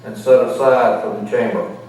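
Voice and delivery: muffled behind a mask; through a face mask. Real, not acted. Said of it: "I hope you can hear me through this mask".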